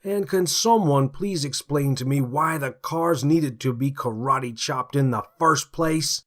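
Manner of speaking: exasperated partner questioning the chief; exasperated Henley. Acted. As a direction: scoff at the chief's praise.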